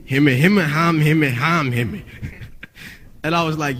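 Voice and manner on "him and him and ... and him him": imitated garbled repetitive babble; a rapper's lingo. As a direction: babble like an unintelligible assistant coach. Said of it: "Stevie Stone sounds like the assistant coach".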